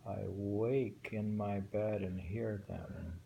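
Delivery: measured recitation of a waka; reading a winter poem aloud to a friend. Shown as a demonstration. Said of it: "So he's wondering".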